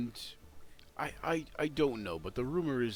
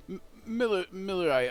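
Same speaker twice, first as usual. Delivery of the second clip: high, louder call; mayor calling out; 9 semitones higher, 5 dB louder than usual. Acted. Mayor calling to the miller, high louder call.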